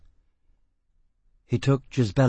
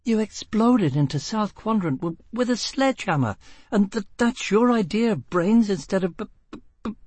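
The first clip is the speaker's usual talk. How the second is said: high, stammering through laughter; losing control to giggles; hysterical laughter; 9 semitones higher than usual. A narrator's reading. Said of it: "she brayed and hooted beyond all control".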